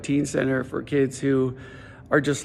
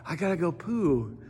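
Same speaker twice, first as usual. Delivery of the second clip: little son; 8 dB quieter than usual. Retold or imitated. Son voiced in the story.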